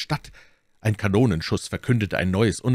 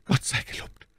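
relieved exclamation; 6 semitones higher, 4 dB quieter than usual. A narrator's reading. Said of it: "rief Buckingham".

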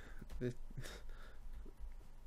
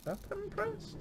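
high, disbelieving question; surprised question; 8 dB quieter than usual. Real, not acted. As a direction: ask it in disbelief. Checking button, repeats it.

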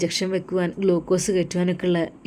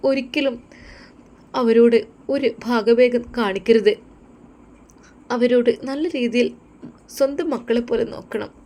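higher, earnest wife voice; a wife making a sincere promise; earnest young wife; 4 semitones higher than usual. Acted. Wife recalls mother's advice.

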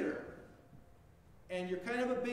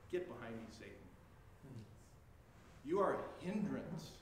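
low stern rebuke; 9 semitones lower, 6 dB quieter than usual. Acted. Jesus rebuking Peter, low and grave. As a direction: lower and softer, a grave rebuke.

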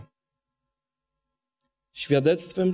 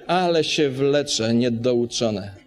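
slow, mocking grumble; 2 semitones lower, slower than usual. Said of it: "Jeżdżąc samochodem po Warszawie".

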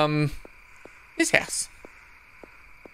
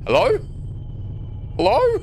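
calling out; 3 semitones higher than usual. Real, not acted. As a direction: call out to find anyone. Calling out in empty place.

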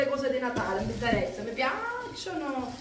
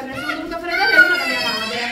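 excited rush; 10 dB louder, much faster than usual. Real, not acted. Excited chatter while unboxing.

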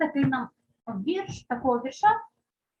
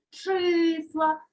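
числа with the first vowel stressed and held; stress on first syllable; 4 semitones higher than usual. Shown as a demonstration. Teacher shows pupils the test word, числа stressed on И. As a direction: lean on the И in числа. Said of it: "став наголошеним голосний".

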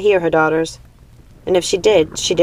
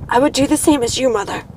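determined daughter; 8 semitones higher than usual. Acted. Gothel answers her mother.

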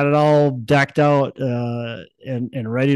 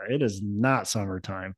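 settled; 6 dB quieter than usual. Real, not acted. Host closing the point to co-host, softer and resigned.

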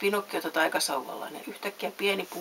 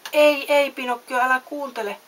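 high loud alarmed cry; shouting; 6 semitones higher, 7 dB louder than usual. A narrator's reading. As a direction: yell a warning at him. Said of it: "huusi Samu Sirkka". (kovaa ja korkealta huutaen)

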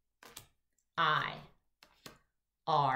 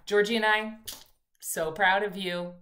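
proud cheer; 2 semitones higher, 7 dB louder than usual. Real, not acted. Teacher cheering the class.

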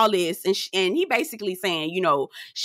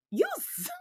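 laughing; 6 dB quieter than usual. Real, not acted. Breaking up laughing.

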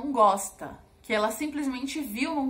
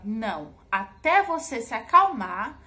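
firm, measured mother laying down a condition; firm but controlled quote to a child; retold firmness; 5 dB louder than usual. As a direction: retell a firm refusal, slowing and leaning on the condition. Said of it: "passar aquela sensação de firmeza".

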